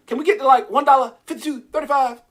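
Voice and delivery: loud, high excited cheering; real hype, voice up and loud; hyped. Real, not acted. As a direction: shout it out, riding the rally. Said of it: "I'm getting a little too hype".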